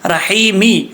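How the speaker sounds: رحیمی with an audible "i" after the m; vowelled final meem. Shown as a demonstration. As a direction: sound out رحیمی ending on "mi". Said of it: "میم کے نیچے جی جو".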